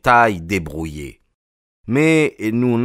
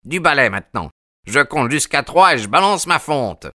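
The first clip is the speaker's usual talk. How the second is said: angry yelling; 6 semitones higher than usual. A narrator's reading. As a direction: count to three, shouting. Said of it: "hurla monsieur Sherman".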